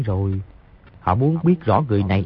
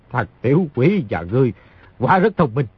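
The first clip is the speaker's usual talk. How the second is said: laughing. Acted. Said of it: "Người kia cười nói".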